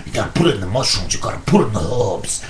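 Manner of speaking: fast, rattled-off cooking tips; fast rattle. Acted. Vinny rushing through carbonara tips for Louis, fast rattle. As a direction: rush through the list of ingredients.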